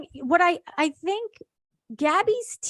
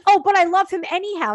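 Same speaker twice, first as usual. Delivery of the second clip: imitating grandpa; 5 semitones higher, 7 dB louder, faster than usual. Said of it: "He says".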